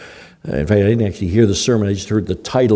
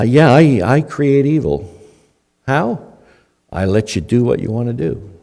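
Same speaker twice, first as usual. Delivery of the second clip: voicing God's reply; 3 semitones higher than usual. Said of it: "hear God saying in response".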